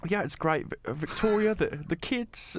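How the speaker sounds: lightly voiced David Beckham; David Beckham impression. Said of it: "doing a David Beckham one".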